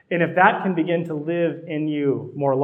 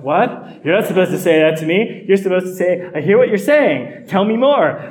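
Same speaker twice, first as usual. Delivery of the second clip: louder, higher mock outrage at "healers"-style bluntness; indignant protest; 4 semitones higher, 8 dB louder than usual. Pastor replaying his offended reply to his analyst, loud higher mock indignation. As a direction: play up your shock, voice rising, louder, higher.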